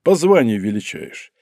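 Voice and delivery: lightly mocking, amused question; with a smirk. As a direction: tease him with a grin. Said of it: "с усмешкой спросил Касаткин".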